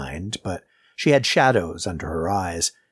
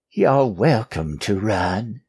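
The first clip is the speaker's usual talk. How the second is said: grunted; 2 semitones higher, slower than usual. A narrator's reading. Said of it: "Margaret grunted".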